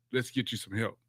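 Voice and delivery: calm supportive coach. Retold or imitated. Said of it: "the relationship you have now".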